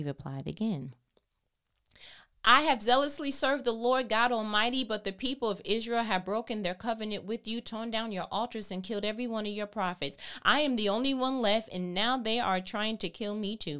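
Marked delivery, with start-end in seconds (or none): 2.4-13.8 louder and higher, hurried protest; a prophet loudly defending himself to God; rebuking protest. Shown as a demonstration. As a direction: throw the complaint back with heat. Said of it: "Rebuke that".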